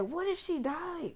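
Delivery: slow, high, fearful whisper-like worry; worried friend. Retold or imitated. Best friend wondering if the sub died, slow and high with worry. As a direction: let the fear slip out slowly. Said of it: "And she was like".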